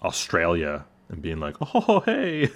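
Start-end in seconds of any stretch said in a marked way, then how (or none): 1.6-2.5 high, bright-pitched Australian "oh, hey"; a quick mock Australian greeting; Australian accent. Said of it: "That was a great Australian accent".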